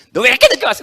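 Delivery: high, loud scolding question; professor scolding. Retold or imitated. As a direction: scold the late student. Professor scolding late student. (늦은 학생을 꾸짖는 교수, 높고 큰 호통)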